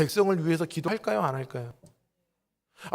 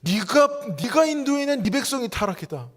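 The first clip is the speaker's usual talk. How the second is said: a hint of a rebuking God, pitched higher; voicing God; 6 semitones higher than usual. God rebuking Moses, lightly voiced and accusing. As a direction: lightly act God's accusation. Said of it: "하나님이 이제 와서 뭐라 그러시는".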